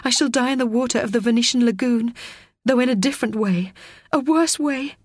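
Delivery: rushing through a grim realization; Teo's fearful thought. Acted. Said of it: "thought Teo".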